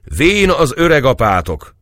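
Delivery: high, loud joking comeback; old Cecei answering the soldiers' teasing; merry retort. Acted. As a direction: fire it back cheerfully. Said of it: "Cecei vidáman felelte".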